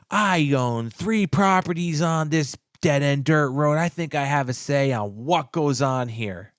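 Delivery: mock-indignant neighbor with a gasp; retold indignation. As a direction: imitate an affronted neighbor laying down the law.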